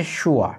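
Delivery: "sure" as shoo-uh, falling; alternative pronunciation. Shown as a demonstration. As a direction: glide from oo to uh in "sure". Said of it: "আরেকটা উচ্চারণ আছে". ("sure" শুয়া উচ্চারণে)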